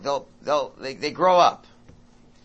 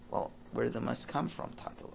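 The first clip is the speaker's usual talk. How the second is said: calm; 4 dB quieter than usual. Retold or imitated. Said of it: "So you calmly say".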